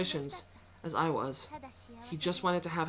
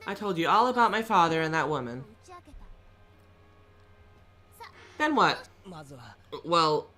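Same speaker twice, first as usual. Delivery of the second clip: cold; 5 semitones higher, 4 dB louder than usual. Acted. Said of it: "she spoke with a cold expression".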